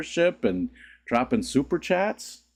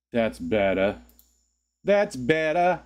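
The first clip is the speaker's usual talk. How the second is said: playful put-on voice; slower than usual. Playful repeats of own phrase.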